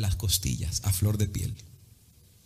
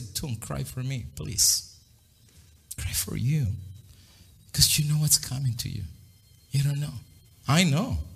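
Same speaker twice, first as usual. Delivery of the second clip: compassionate; 2 semitones higher, slower than usual. Acted. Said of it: "Jesús, todavía compasivo, dice".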